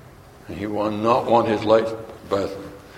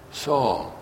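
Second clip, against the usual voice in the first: whisper; 7 dB quieter than usual. Pretend. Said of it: "would he whisper in his ear".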